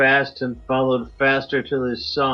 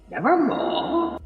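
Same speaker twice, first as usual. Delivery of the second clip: much higher, slow, eerie raven cry; raven's croak; slower than usual. A narrator's reading. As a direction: stretch it out like a bird calling from above. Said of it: "Quoth the raven".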